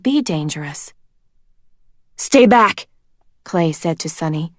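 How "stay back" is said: urgent warning. A narrator's reading. Clay warning Sunny.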